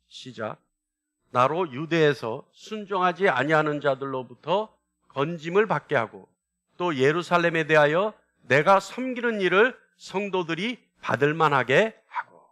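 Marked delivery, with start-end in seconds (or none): 1.3-12.5 slow, measured verse reading in phrases; stretched phrase endings, read aloud together; scripture reading. Acted. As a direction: lead a congregation through the verse, unhurried.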